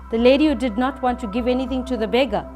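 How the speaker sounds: usual speaking voice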